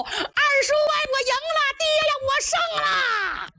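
put-on a young warrior's jubilant shouting; triumphant shout. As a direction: yell it across the battlefield to your uncle and father. Yue Yun calls out in triumph.

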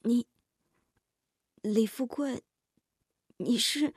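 halting, shaken question with long gaps; trembling voice. Acted. Daughter staring at her visitor in disbelief, trembling. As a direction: falter between words, trembling. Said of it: "声音更是颤抖得厉害".

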